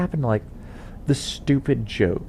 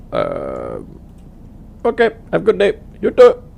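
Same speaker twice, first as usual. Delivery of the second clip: higher, louder hurried sign-off; awkward phone goodbye; 7 semitones higher, 4 dB louder than usual. Retold or imitated. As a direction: wrap up the call awkwardly. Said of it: "very awkward from there".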